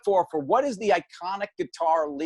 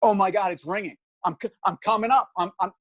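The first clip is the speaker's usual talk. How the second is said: excited; 3 semitones higher than usual. Retold or imitated. Retelling his call getting through.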